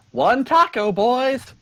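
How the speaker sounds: high, loud shout to the crew; calling out an order. Acted. Lemur taco seller to helpers, calling out an order. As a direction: sing out the order to your helpers.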